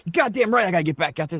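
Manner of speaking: retold fighting-spirit comeback; fired up. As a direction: imitate a manager getting pumped up. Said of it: "he's all fired up".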